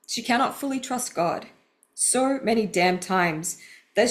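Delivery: measured, earnest read of personal writing; deliberate, heartfelt book reading; reading aloud. Acted. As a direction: read your own confession out with care. Reads her book passage aloud.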